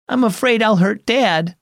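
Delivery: put-on high girl voice, mildly tearful; a touch of tears in it. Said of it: "More tears fell".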